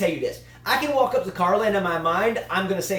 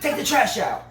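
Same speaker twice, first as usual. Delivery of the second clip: imitating his wife; 5 semitones higher than usual. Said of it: "she's like".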